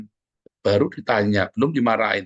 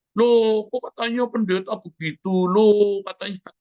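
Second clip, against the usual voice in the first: gossiping onlooker; 10 semitones higher, 3 dB louder, slower than usual. Pretend. Mimicking gossiping church members.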